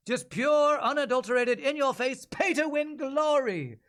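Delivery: over-the-top mock commercial voice; hyped sarcastic ad read. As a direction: oversell the pay-to-win game with a wink. Parody ad for Gem Crab.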